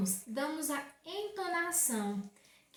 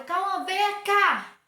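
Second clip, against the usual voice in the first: slow, loud, higher "Cauã, vem cá" dragged out in anger; angry call; 5 semitones higher, 9 dB louder, much slower than usual. Shown as a demonstration. Mother demonstrating to pupils how she calls Cauã when angry, slow and loud. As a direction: stretch every word of "Cauã, vem cá" like a furious mother. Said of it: "Ele sabe que eu tô brava e ele vai vir logo".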